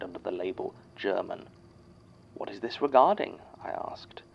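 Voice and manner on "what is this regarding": louder, rising, rehearsed question; lightly voiced child reciting a learned phone line; memorized phone script. A narrator's reading. Child questioning a caller on the phone, memorized script. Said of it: "had a whole phone conversation memorized".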